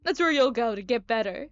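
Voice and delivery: lightly voiced chirpy odd doctor; eccentric doctor. Doctor explains to patient that business happens inside, lightly voiced character. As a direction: call the patient to attention, then explain.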